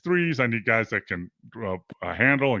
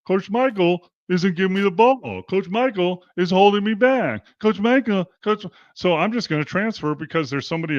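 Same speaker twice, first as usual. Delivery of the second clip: whiny mock complaint; 5 semitones higher, 4 dB louder than usual. Mocking a complaining player.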